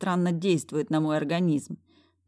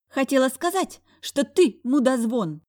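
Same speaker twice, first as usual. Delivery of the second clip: spiteful ex-wife; 9 semitones higher, 6 dB louder than usual. A narrator's reading. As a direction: drag out the insult, high. Ex-wife insults him.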